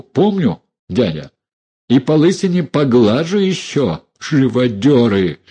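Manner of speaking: loud, biting scorn; scornful niece berating her uncle; mocking anger. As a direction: sneer then lash out. Dunya mocks the uncle.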